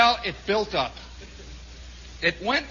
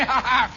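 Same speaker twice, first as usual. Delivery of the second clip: short higher burst of mocking laughter; 3 semitones higher than usual. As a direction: laugh along with the teasing, put-on. Acted laugh of teasing soldiers.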